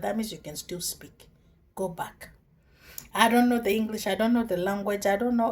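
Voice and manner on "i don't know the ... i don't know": pleading protest. Acted. Moses protesting to God.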